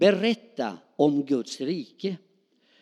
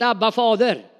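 Abba, Fader called out loud and fervent; proclaimed; 4 semitones higher, 5 dB louder than usual. Shown as a demonstration. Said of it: "Ett mera förtroligt namn för pappa".

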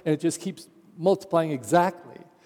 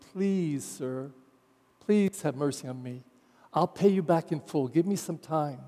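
begging; 2 semitones lower, 5 dB quieter than usual. Acted. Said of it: "fell down on his knees and begged him".

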